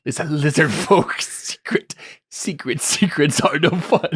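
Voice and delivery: slow imitated lizard whisper; mock the sly lizard voice; imitating lizard voice. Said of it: "talking to yourself".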